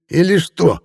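high, cocky taunt; insolent sneer. Acted. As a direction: grin insolently at him. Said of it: "нагло осклабился репортёр".

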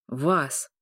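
low booming beast voice; a low, inhuman werewolf boom. A narrator's reading. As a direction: let the wolf speak through him, low. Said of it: "прогудел он нечеловеческим голосом".

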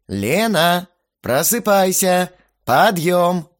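loud, high call to get up; wake-up shout. Acted. The hero shakes sleeping Lena, shouting her awake. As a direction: rouse her, loud and insistent.

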